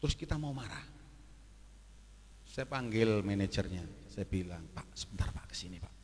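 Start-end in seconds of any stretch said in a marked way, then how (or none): 4.8-6.0 panggilan lirih nyaris berbisik; pelan-pelan. Retold or imitated. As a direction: panggil diam-diam supaya tak terdengar orang. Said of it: "Saya pelan-pelan". (panggilan pelan kepada manajer)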